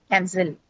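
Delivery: cancel stressed on its second syllable; weight on the -cel of cancel. Shown as a demonstration. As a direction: say cancel as can-CEL, falling. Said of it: "stress is marked before the second syllable".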